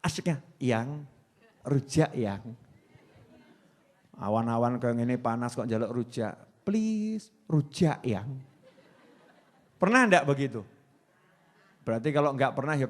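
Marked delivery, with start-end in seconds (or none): 0.6-2.4 spoiled pleading. Retold or imitated. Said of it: "manja dalam meminta kepada kekasih". 6.6-8.3 spoiled pleading. Retold or imitated. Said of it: "manja dalam meminta kepada kekasih".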